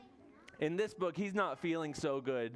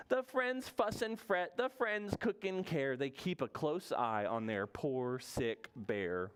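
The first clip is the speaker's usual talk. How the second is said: put-on reading to children; slower than usual. A narrator's reading. Reads picture book to children.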